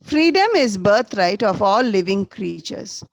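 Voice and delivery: teacher dictating loudly; dictation. Shown as a demonstration. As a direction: read it out clearly for the class to mark. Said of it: "underline the word".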